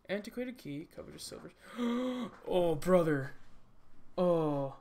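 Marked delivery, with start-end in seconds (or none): 1.6-2.4 loud, high intake of breath; sudden loud gasp; startled gasp. Real, not acted. Startled by a game event. 2.5-4.7 very loud startled cry; full-volume outburst of dismay. Real, not acted. Sudden shock during the game.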